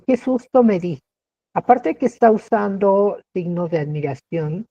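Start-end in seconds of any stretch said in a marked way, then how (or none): 0.1-1.0 exclamation of fright. Shown as a demonstration. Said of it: "un ejemplo".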